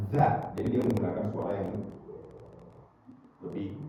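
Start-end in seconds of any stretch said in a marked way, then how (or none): 0.1-0.5 "that" with a voiced th; correct th sound. Shown as a demonstration. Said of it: "ini bacanya".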